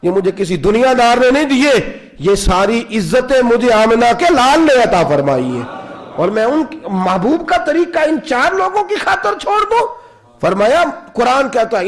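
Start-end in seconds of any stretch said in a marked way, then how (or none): 0.0-9.9 stern rebuke. Retold or imitated. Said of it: "جلال میں".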